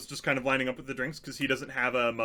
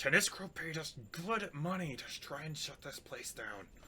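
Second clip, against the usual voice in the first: frightened, panicked, very quiet whisper, badly hidden; 2 semitones higher, 11 dB quieter than usual. Voicing a panicked character who gives away a secret: Regina Pin panicked whisper. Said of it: "really panicked. He's just like".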